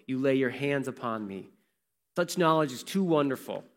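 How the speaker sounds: measured, phrase-by-phrase psalm reading; scripture reading. Real, not acted. Preacher reading Psalm one thirty-nine to the congregation, measured recitation. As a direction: read the verse aloud, pausing between phrases.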